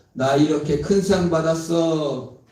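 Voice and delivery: slow, loud, effortful articulation; slurred speech. Retold or imitated. Actor with cerebral palsy accepting his award, lightly imitated slurring. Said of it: "어눌한 발음으로".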